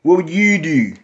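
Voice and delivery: thick Baltimore accent on the question. Shown as a demonstration. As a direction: ask it Baltimore style. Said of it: "I'ma speak to you in my Baltimore accent".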